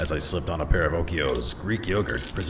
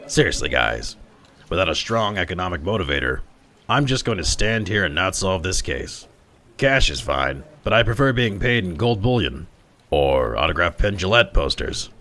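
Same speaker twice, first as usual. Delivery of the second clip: louder exasperated appeal; exasperated cop; 3 semitones higher, 4 dB louder than usual. Acted. Detective pleads with the workers for payment, louder. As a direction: coax the silent crowd into paying.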